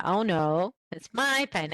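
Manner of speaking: "my" stressed in a correcting tone; emphasize my, not yours. Shown as a demonstration. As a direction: contrastive "my". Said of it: "you would stress it".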